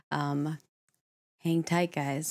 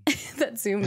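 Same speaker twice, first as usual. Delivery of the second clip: laughing; 3 semitones higher than usual. Real, not acted. Laughing while speaking.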